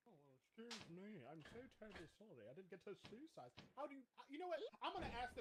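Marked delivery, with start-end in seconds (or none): 0.1-3.5 sarcastic. Real, not acted. Sarcastic apology.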